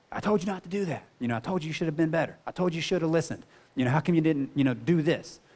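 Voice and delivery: a hint of a lecturing father; dad's scolding voice. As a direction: lightly imitate a stern dad nagging his son. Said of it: "I hear my dad's voice".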